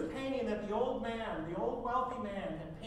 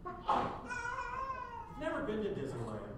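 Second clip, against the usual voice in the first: mock high voice; 11 semitones higher, much slower than usual. Mocking aside to congregation.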